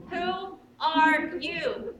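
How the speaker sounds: "Who are you?" stretched very slowly; slow, drawn-out question. Retold or imitated. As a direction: linger on each word of "Who are you?". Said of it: "you think to yourself".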